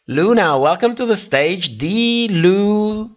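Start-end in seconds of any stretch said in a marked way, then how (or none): 1.8-3.1 lightly voiced drag queen name call, high then breathy; a hint of Trixie announcing the queen; Trixie's voice. Streamer calls a queen's name, lightly Trixie-style. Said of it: "we bear that in Trixie's voice".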